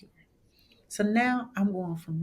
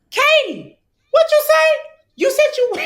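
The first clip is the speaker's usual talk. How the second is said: calling out loud and high; 13 dB louder than usual. Retold or imitated. Calling to her friend at the front of the line, high and loud.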